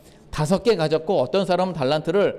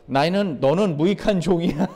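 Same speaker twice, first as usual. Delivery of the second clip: lightly voiced master passing judgement; stern master. Jesus telling the servant he is unprofitable, a light touch of sternness. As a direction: give the verdict as the master.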